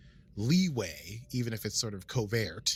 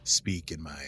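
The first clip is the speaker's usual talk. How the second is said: exaggerated own voice. Shown as a demonstration. Host insisting this is their actual voice, slightly hammed-up. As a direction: lay on a little extra sauce. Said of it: "I basically talk like this".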